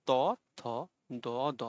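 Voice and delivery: "ত, থ, দ, দ" with tongue against the teeth; dental consonants. Shown as a demonstration. Teacher proves tongue meets teeth, "ত, থ, দ, দ" sounded dentally. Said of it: "দাঁতের সঙ্গে লেগে যাচ্ছে".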